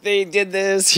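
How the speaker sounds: high, loud indignant accusation; mock outrage. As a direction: blame them in a hammed-up fury. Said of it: "I was like".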